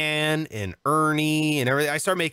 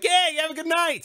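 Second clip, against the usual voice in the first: mock cheery sendoff; 10 semitones higher, faster than usual. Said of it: "I'm like".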